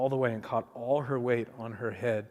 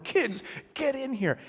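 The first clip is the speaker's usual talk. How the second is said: put-on calling the kids; 12 semitones higher than usual. Calling kids back from the road.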